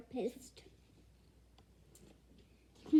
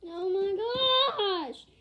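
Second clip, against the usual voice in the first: slow, higher, loud oh my gosh; shocked exclamation; 7 semitones higher, 8 dB louder, much slower than usual. Real, not acted. Reader shocked by how scary she looks. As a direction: stretch it out in disbelief.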